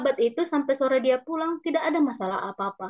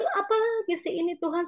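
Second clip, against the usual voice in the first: trembling despair; 4 semitones higher than usual. Retold or imitated. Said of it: "Rasanya gemetar".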